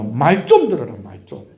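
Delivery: exasperated Gyeongsang scolding, dropping at the end; Gyeongsang dialect. Shown as a demonstration. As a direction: punch it in Gyeongsang dialect, then drop away. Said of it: "저 경상도 말로".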